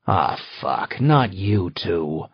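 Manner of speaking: low, tired groan of a worn-down husband; weary husband. Acted. Husband groaning at his wife's accusation, slow and low. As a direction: drag out the not in heavy dismay.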